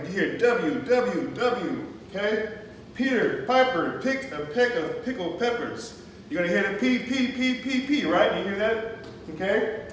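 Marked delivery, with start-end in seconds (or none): 2.9-5.9 slow, higher-pitched tongue twister recital; measured classroom tongue twister; alliteration recital. Shown as a demonstration. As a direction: recite slowly, each word set apart for the class. Teacher reciting alliteration example.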